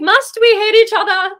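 high laughing mock plea; laughing high squeal. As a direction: squeal it through giggles. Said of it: "I was like".

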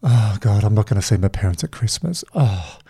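lightly acted fed-up moaning to oneself; negative inner voice. Someone waking to covid news, grumbling inwardly in mock despair. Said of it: "and then that inner voice starts".

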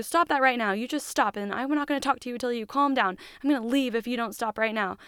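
mildly acted, impatient telling-off; mock scolding. Husband to his upset wife, mock scolding.

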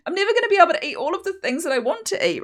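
high, fast whiny inner voice; annoying brain voice. Retold or imitated. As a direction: rattle it off like a nagging craving. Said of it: "That was a really annoying brain voice".

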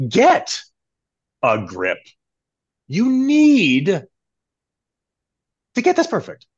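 high, loud, playful tone; changed tone. Shown as a demonstration. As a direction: pitch it way up like a cartoon squeak. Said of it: "changed the tone of it".

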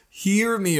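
an earnest call for help; crying out. Acted. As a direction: cry it out to the Lord. Rereads psalmist's cry.

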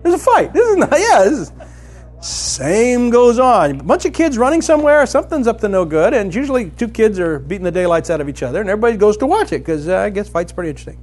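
high, loud, driving sermon voice; fervent preaching. Acted. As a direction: preach it out with full fire. Preaching at full force.

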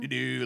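light sung doo-doo noises; carefree humming. Retold or imitated. Host retells cooking to music, light carefree humming. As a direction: toss off a little carefree hum.

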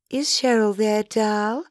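lightly voiced caller, lifting at the end; caller on the phone. A narrator's reading. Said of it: "voice at the end of the phone".

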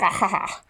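short put-on chuckle; little scheming laugh; mock sly laugh. Ex luring him in, mock sly laugh. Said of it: "But with a hook".

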